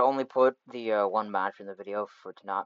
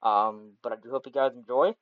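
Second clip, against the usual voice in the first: cheap USB mic sound; bad mic quality; 4 dB louder than usual. Real, not acted. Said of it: "sorry about the bad mic quality".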